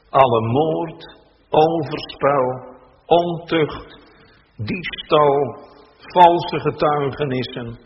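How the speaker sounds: measured, solemn Bible reading from the pulpit; scripture reading. Acted. Minister reads the gospel passage to the congregation, solemn and measured.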